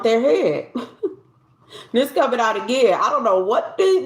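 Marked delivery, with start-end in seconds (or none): 0.0-0.8 laughing. Real, not acted. Laugh heard while reading cards.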